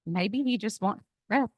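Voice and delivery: slow, soft and solemn; husband speaks slowly, like God's voice. Retold or imitated. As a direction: deliver it like a quiet revelation. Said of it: "as if from the mouth of God".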